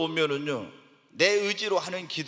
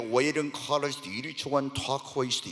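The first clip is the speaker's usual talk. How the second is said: lower, flowing tongues prayer with drive; Spirit-led tongues; 3 semitones lower, 3 dB quieter than usual. Shown as a demonstration. Preacher showing the congregation Spirit-led tongues, flowing and lively. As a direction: pour it out as the Spirit moves you. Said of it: "막 기도가 이럽니다".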